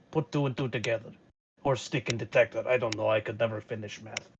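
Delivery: low, hushed conspiratorial pitch; hushed in-character voice. Acted. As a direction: whisper the scheme to a friend. Character whispers to Kevin.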